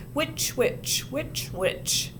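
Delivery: whispered, savouring the words; whispered thought. A narrator's reading. Ramona repeating the words to herself in a whisper. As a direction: whisper it, enjoying the sound.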